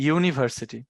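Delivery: "ইউনিভার্সিটি" starting with a clear yoo glide; yoo sound demo. Shown as a demonstration. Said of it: "ইউনিভার্সিটি যখন আমরা উচ্চারণ করি".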